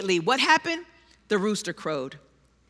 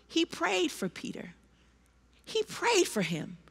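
softened emphasis; 10 dB quieter than usual. Real, not acted.

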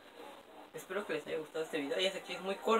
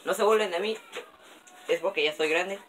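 loud plea; 3 semitones higher, 8 dB louder than usual. Real, not acted. Pleading while stuck.

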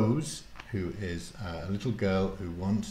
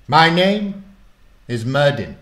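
put-on loud, higher grand old warlock; 6 semitones higher, 10 dB louder than usual. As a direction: announce himself with old-world pomp. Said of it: "said the strange man".

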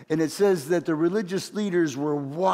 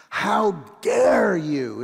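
slow, louder, higher outraged rebuke; Jesus rebuking; 4 semitones higher, 4 dB louder, much slower than usual. Retold or imitated. Jesus rebukes the disciples for shooing children away, slow and outraged. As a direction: drag out each word of the rebuke. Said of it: "the word for displeased... strong personal pain".

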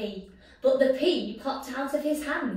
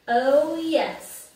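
triumphant hero; 5 semitones higher, 8 dB louder than usual. Acted.

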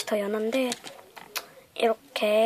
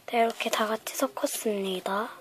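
whispering; 7 dB quieter than usual. Real, not acted. Whispered aside while mixing.

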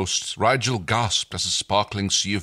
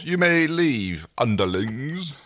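haughty dismissal; 5 semitones higher, much slower than usual. Acted. Rigel dismisses underlings.

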